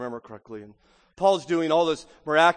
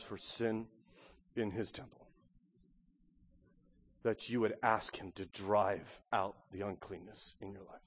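prayer leading; 5 semitones lower, 5 dB quieter than usual. Real, not acted. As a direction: guide the church gently into prayer. Leads silent prayer.

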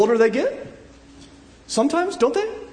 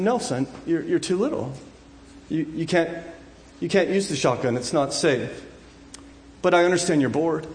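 gentle father; 3 semitones lower, 3 dB quieter than usual. Acted. Father gently answering his son.

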